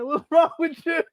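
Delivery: high mock-concerned voice; high teasing question to a bird; talking to the bird.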